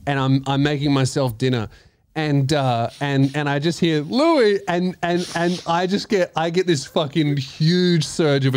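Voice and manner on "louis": slightly high name call; woman calling out. Retold or imitated. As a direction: lightly imitate a woman calling. Mimics mystery voice calling his name.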